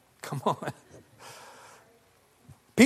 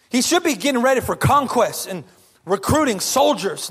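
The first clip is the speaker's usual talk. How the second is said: gossipy complaining; 4 semitones higher than usual. Retold or imitated. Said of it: "all super gossipy and dramatic".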